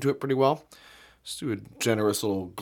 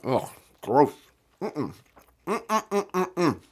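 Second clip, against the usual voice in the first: disgusted; 5 semitones higher, much slower than usual. Real, not acted. Disgust after tasting mustard.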